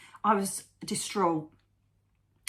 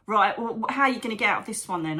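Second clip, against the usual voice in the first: louder, quick, snippy retort; mildly raised, hurried sarky question; retold shitty challenge; 3 semitones higher, 3 dB louder, faster than usual. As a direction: re-enact a stroppy challenge, rushed at the end. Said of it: "really shitty".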